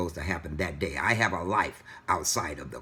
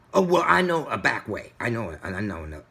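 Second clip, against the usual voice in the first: breezy driver excuse; 2 semitones higher, 4 dB louder, faster than usual. Retold or imitated.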